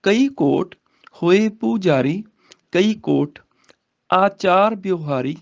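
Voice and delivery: slow, measured verse reading; scripture recitation. Shown as a demonstration. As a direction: recite the sacred verse, drawing out the words.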